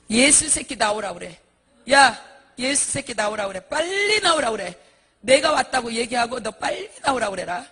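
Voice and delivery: loud acted thug yelling; defiant challenge. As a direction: demand a showdown, arrogant and loud. Monk acted defying Jesus in hell.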